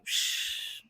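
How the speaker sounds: unvoiced hush; whispered shush. Student imitates the professor's whispered shush. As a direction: shush like a secret. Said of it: "he was just like".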